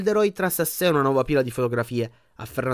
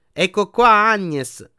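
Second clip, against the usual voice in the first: higher, louder bright nurse voice; cheerful healer; 8 semitones higher, 7 dB louder, much slower than usual. A narrator's reading. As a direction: sing it out cheerily to the patient. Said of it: "disse allegra la guaritrice". (guaritrice allegra, voce più acuta)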